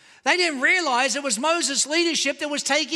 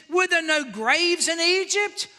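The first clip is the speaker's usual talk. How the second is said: whiny complaint; 3 semitones higher than usual. Retold or imitated. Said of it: "listen to the complaints".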